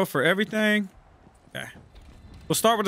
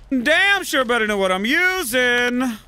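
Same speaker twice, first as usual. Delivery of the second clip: emphatic; 5 semitones higher, 4 dB louder, slower than usual. Shown as a demonstration.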